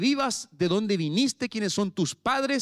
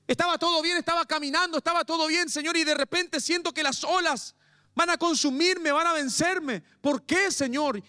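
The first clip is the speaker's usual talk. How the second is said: high, pleading lament that climbs higher as the pain builds; anguished plea to God; 8 semitones higher than usual. Acted. Believer caught in the storm questioning the Lord, high pleading lament. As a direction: cry out to the Lord like a believer overwhelmed by suffering. Pastor voices a suffering believer praying.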